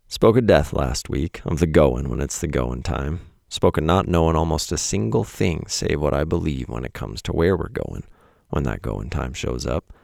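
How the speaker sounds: a put-on rural accent for the poem lines; folksy drawled accent. Reading his own poem in a country accent. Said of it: "don't know why I did that in an accent".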